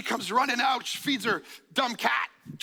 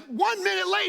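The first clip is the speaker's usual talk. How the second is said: incredulous; 9 semitones higher than usual. Retold or imitated. Dad outraged at missed plane.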